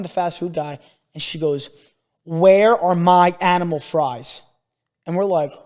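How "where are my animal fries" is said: slow, loud demand, imitating a rude kid; drawn-out, entitled mock demand; demanding little girl. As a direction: mimic a child ordering staff about. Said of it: "talk to workers like this".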